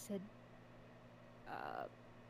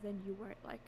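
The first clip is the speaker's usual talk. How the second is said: soft unvoiced whisper; 3 semitones lower, 13 dB quieter than usual. Real, not acted. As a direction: keep it to a whisper. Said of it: "I think it'll help if we whisper too".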